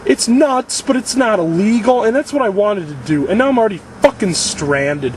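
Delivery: high, exasperated venting; worked-up, aggrieved outburst; pissed off. Real, not acted. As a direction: rant in real frustration, pitch climbing. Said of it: "I'm just so fucking pissed off".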